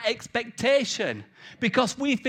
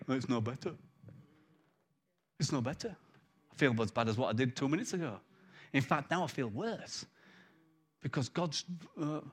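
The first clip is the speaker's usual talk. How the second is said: mopey complaint; 6 semitones lower, 8 dB quieter than usual. Retold or imitated. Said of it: "they go into this whole drama".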